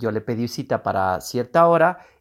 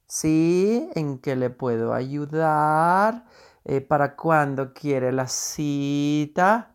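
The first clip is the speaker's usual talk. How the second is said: affected phone voice; 2 semitones higher, much slower than usual. Retold or imitated. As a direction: lightly mimic an affected call-center agent, slowly. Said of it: "llamemos así como amanerado". (voz amanerada de operador, lenta)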